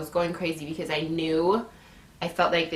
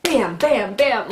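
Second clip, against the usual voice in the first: louder, punched "bam" bursts; punchy impact noises; 4 semitones higher, 5 dB louder, slower than usual. Retold or imitated. Woman imitating her contractions striking, punchy bams. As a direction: hit each bam like a blow.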